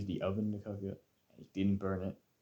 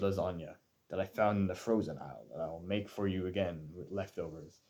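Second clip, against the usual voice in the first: mock offended dad. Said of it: "he was, like, taken aback".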